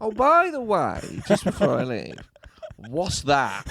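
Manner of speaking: high breezy throwaway; patient pretending it's trivial; mock casual afterthought. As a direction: toss it off like it's nothing.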